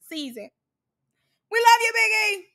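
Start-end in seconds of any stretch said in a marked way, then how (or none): 1.5-2.4 high, loud fawning cheer; mock gushing. Reactor mocking the girls' flattery of Biggie, gushing squeal. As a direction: cheer it high like a fake fan.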